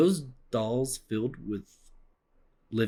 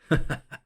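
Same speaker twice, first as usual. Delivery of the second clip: short scornful laugh, higher and louder; mocking laugh; 4 semitones higher, 5 dB louder than usual. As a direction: laugh at a bunch of fools. Villainous character laughs at fools.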